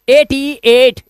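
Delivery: एट said as one syllable with a long 'ay', like 'eight'; एट with long 'ay' and silent final e; correct reading. Shown as a demonstration. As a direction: spell it, then read एट to rhyme with 'late'. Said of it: "इसे पढ़ते हैं एट".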